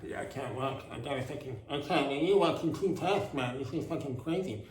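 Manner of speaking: put-on voice of a kid falling behind; mock struggling kid. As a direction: complain like a kid who can't keep up. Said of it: "They pretended to be retarded".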